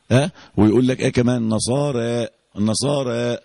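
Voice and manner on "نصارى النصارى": "النصارى" with the last a leaning slightly toward e; Warsh taqlil. Shown as a demonstration. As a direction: end "نصارى" on a lightly tilted vowel, short of full imala. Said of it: "في رواية ورش بيقلل على طول".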